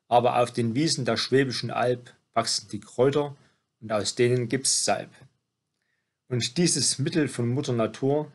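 measured, rhymed poem reading; poem recitation. Acted. Reciting a birthday poem to someone turning seventy, poem recitation. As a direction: recite it verse by verse, pausing between lines.

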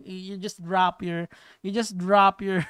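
slow attempt at an American accent; tentative American accent; American accent demo. Shown as a demonstration. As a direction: try out a drop-jawed American accent. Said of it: "pag yung American accent kasi mas madali".

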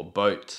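"boat" with a b, both lips closed; "boat" opens with a b. Shown as a demonstration. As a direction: start "boat" with a firm b. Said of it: "que significa barco".

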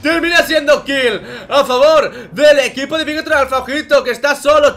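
loud, high esports casting shout; hype play-by-play. Acted. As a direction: call the teamfight at full hype. Live play-by-play of a fight.

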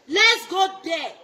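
slow, loud call to the crowd; slow rallying shout. Real, not acted. Rallying fans to go to court, slow loud shout. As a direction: draw it out like a rally cry.

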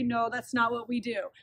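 softly and calmly correcting the puppy; a gentle, low-key no. Shown as a demonstration. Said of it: "so gently say".

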